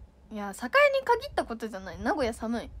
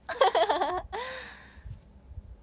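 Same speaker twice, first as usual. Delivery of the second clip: giggling laugh; 8 semitones higher than usual. Real, not acted. Laughs at own joke.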